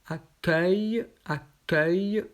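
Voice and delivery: "accueil" said as a-keuy, open œ; repeated model word. Shown as a demonstration. Teacher modelling "accueil" twice for students. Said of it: "motif E U I L".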